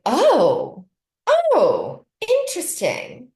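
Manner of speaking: high, swooping imitation of someone intrigued; intrigued surprise. Director hearing the dialect coach offer, intrigued surprise. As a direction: play up the dawning interest on each exclamation.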